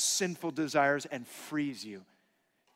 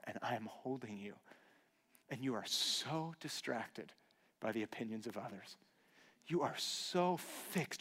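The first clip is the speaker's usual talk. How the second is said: tender divine voice; 4 dB quieter than usual. Acted. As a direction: speak gently as a loving Father. God speaking to the father.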